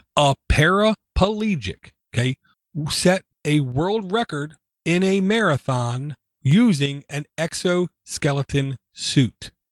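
drawn-out, deliberate, slow, dramatic delivery for effect. Giving another example to make a point, slow for dramatic effect. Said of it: "I'm saying this slow for dramatic sake".

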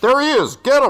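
put-on very high, classic old-movie trooper voice. Narrating a game, voicing stormtroopers who spot the player, original-trilogy stormtrooper voice. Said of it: "like original trilogy voices".

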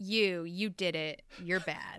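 slow, drawn-out, sassy, accusing voice. Acting out Ronan the Accuser passing judgment: sassy accusing Ronan the Accuser voice. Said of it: "Ronan the Accuser is like".

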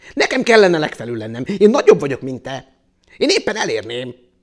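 angry, cross, very loud insistent outburst. The longhorn beetle speaks to the ladybird atop the animal pile: said angrily. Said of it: "mondta dühösen a cincér".

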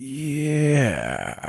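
odd, noise-like, drawn-out sound-effect "yeah". Imitating the other speaker's reaction just now: imitating an odd sound-effect yeah. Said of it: "You were like".

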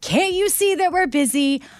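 high, furious, angry yelling. Retelling a barista snapping at an old woman, imitating her yelling. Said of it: "but she's yelling".

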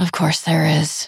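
muttered, grumbling under her breath. Narrating a story, Dizzy answers Uma's request: muttered under her breath. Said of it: "Dizzy muttered under her breath".

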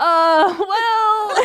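high, loud mock moan.

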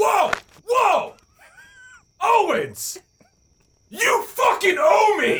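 very high, very slow, drawn-out yell, rising. Stopping someone leaving with his cooler: yelling. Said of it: "Don't fucking yell at me".

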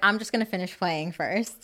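plain

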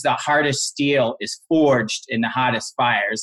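ordinary talk

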